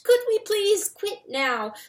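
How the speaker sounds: slow, high, pleading squeak; frightened squeak. A narrator's reading. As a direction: beg to stop in a tiny voice. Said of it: "Freytag squeaked".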